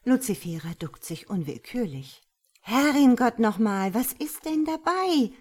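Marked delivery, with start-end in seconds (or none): 2.6-5.3 loud, climbing high at the question; raised, defensive outburst; exasperated protest. Acted. Luzifera protests against God's anger.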